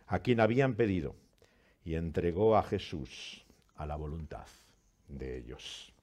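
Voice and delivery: measured, solemn Bible reading; scripture reading. Acted. Pastor reading Luke's trial to the congregation, solemn reading. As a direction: read the Gospel to the congregation with weight.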